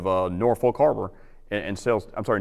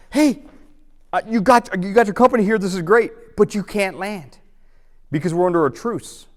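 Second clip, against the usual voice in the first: raised, high-pitched greeting voice; calling-out lieutenant; 8 semitones higher, 3 dB louder than usual. Retold or imitated. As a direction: imitate an officer hailing new arrivals. Lieutenant greets arriving company, refuses landing.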